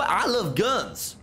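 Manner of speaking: slow, stretched American "I love guns" leaning on "love"; slow hammed American brag; drawn-out American exclaim. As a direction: drag out "love" in a proud American accent. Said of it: "if I do an American accent".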